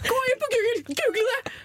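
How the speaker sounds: high, pushy shout; insistent shout. Retold or imitated. Tipsy fan ordering the police to check, shouting high. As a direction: demand it of them with drunken urgency.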